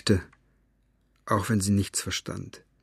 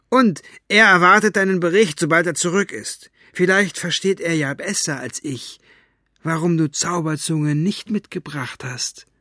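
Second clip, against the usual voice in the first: put-on high, sneering threatening old woman; gloating, menacing villainess; mustache twirling villain; 7 semitones higher, 5 dB louder than usual. Mortola threatens Basta. (höhnisch drohende Schurkin)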